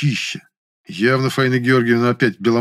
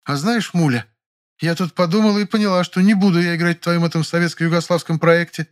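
высоко, с лёгкой свирепостью; лёгкая наигранная свирепость; свирепо заявляет; 8 semitones higher than usual. A narrator's reading. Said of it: "вдруг свирепо заявила". (актриса отказывается от роли, свирепо)

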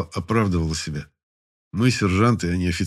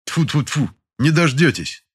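cheerful reply; 7 semitones higher, 4 dB louder, slower than usual. A narrator's reading. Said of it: "с улыбкой ответил".

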